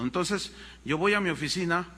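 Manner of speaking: ordinary delivery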